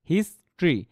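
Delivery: "হিস্ট্রি" split as his-tri; two syllables. Shown as a demonstration. Teacher showing the word's syllables, two-syllable pronunciation. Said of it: "দুইটা সিলেবলের word".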